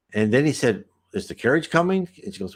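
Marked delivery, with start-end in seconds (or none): 1.1-2.1 higher, impatient mock demand; barked question. Sailor pressing the spirit helper, mild impatient bark. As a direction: push for the carriage like a take-charge man. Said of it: "just kinda barked orders".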